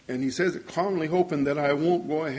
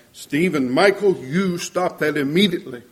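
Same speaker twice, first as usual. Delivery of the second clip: name ringing out; 5 dB louder than usual. Retold or imitated. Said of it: "my name would ring out".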